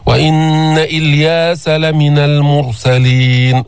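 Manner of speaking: slow, sustained tajweed chant; Quranic recitation. Shown as a demonstration. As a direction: recite with long, even held vowels. Recites the verse as model.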